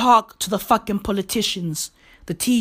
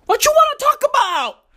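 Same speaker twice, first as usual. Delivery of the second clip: high sing-song call. Acted. Sing-song refrain of his rant.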